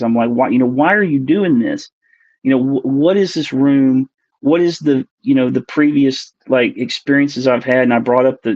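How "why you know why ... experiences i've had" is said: retold exasperated demand, stressed words; raised voice in protest. Abductee retelling how she questioned the cloaked figure, mildly raised voice. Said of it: "elevating my voice with these things".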